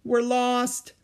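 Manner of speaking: high, drawn-up exclamation; dismayed cry. Acted. Jack and Annie realizing together they're lost, dismayed. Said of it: "they said together".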